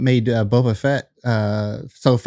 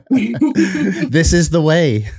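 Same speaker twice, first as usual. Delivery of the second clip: Mandalorian catchphrase; 3 semitones higher, much slower than usual. Pretend.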